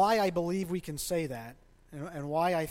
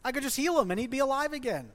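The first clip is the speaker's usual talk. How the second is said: mock sudden realization; 6 semitones higher, faster than usual. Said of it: "Be like".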